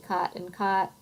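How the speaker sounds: both words "cot", with one identical open vowel; cot-caught merger. Shown as a demonstration. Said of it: "sound the same".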